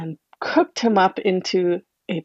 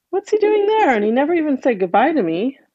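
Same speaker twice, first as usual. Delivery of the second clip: hurt father; 6 semitones higher, faster than usual. Acted.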